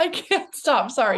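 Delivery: tearful voice breaking, pitch up; real happy tears spilling over; can't hold back the tears; crying. Real, not acted. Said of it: "the tears, they're just coming".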